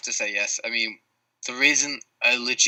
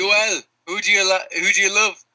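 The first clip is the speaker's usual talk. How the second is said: high, loud bad Irish accent; hideous Irish accent; 9 semitones higher, 5 dB louder than usual. Drunk Irishman questioning Yoel Romero, hideous Irish accent. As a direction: shout it out in a hammed-up Irish brogue. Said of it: "your hideous Irish accent".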